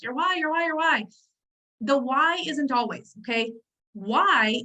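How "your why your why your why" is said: singsong mock chant, pitched up; mocking others' refrain. Coach imitating people who preach about the why, mocking. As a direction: parrot it dismissively, a little high. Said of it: "when I hear people say, like".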